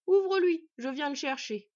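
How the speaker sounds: loud, high shouted reply; calling back. Acted. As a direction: holler the instruction upstairs. Smith calls back to wife.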